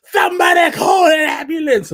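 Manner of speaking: high frantic yell for help; frantic shout. Retold or imitated. Dusty screaming at ringside for an ambulance, frantic shout. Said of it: "Dusty's like".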